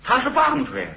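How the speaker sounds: high, fast indignant yelling; a high, fast, angry complaint to the stage manager. Retold or imitated. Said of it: "跟管事的这个嚷嚷".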